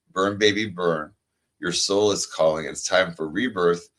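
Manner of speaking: slow, measured, uplifting read; inspirational card reading. Acted. Reading a rebirth card to her friend, slow and uplifting. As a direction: let each phrase land slowly like an affirmation.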